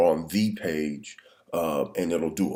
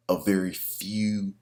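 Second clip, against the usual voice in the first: whispering; 3 semitones higher, slower than usual. Real, not acted. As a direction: whisper so the wife stays asleep. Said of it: "if it sounds like I'm whispering, it's because I am".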